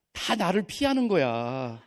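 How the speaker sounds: ordinary talk, nothing marked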